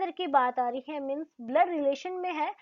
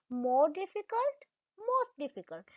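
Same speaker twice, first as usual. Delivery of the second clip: very slow more difficult; slow, careful; 4 dB quieter, much slower than usual. Shown as a demonstration. Teacher slowly models the form for the class. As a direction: drag each syllable out. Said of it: "हल्का सा pause लेते हुए".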